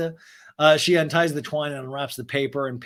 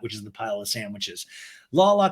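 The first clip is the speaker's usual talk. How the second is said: ordinary talk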